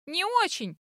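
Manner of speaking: high, hesitant call; unsure cry. A narrator's reading. Heroine admitting she barely swims, unsure cry. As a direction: call it out uncertainly, pitch jumping up. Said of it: "неуверенно крикнула я".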